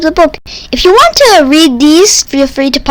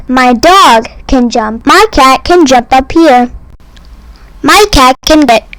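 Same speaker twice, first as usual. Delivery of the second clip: ordinary delivery, nothing marked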